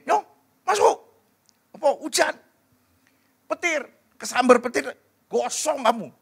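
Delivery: high-pitched, urgent calls to come inside; alarmed parent. Acted. Parent to child out in the rain, alarmed calling.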